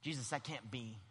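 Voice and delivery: low, subdued protest; Peter. Acted. Peter objecting to Jesus, quiet and low. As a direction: object softly, holding the volume down. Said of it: "Now, that's Peter here".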